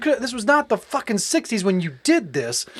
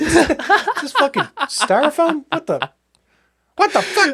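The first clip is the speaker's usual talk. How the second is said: incredulous guard; 7 semitones higher, slower than usual. Retold or imitated. Acting guards finding fake.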